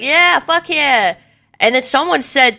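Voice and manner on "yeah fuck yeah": yelled cheer. Retold or imitated. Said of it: "we started yelling at her".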